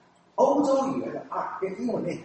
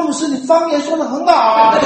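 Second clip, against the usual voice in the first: amazed pastor; 8 semitones higher, 10 dB louder than usual. Retold or imitated.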